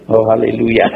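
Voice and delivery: laughing mock praise. Imitating woman, laughing.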